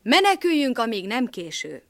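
urgent. Acted. Dog urges escape.

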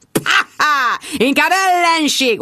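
high, gleeful mock yell with a laugh; cheerful high yell, slowed on the end; happy yell. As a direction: shout it out happily. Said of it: "ordítottam boldogan".

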